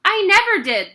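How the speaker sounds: high frightened schoolboy; exclaimed. Acted. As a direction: deny it in alarm. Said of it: "the boy exclaimed".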